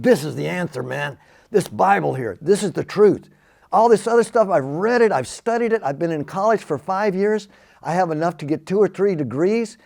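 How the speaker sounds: rising to a passionate near-shout; fervent insistence. Retold or imitated. To the stranger, holding up his Bible, fervent and urgent.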